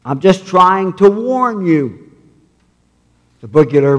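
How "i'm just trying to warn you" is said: parrot squawk. Acted. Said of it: "then squawked".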